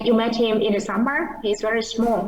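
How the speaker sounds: "met", "him", "summer" and "small" stressed, function words light; stress on content words. Shown as a demonstration. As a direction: punch "met", "summer" and "small", glide over the rest. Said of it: "chú trọng cái chữ met him, summer, small".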